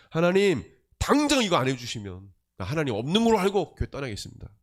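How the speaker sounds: acted-out ultimatum, forceful at the start; mock threat. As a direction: imitate a churchgoer threatening God. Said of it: "막 하나님 협박해요".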